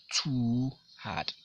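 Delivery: teacher answering her own question; stress on too. Shown as a demonstration. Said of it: "the too over there".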